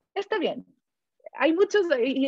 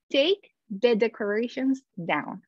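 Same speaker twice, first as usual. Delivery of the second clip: "take the decorations down" said slowly, word by word; slow demo; slower than usual. Shown as a demonstration. Teacher slowly showing the split verb to students. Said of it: "En vez de decir".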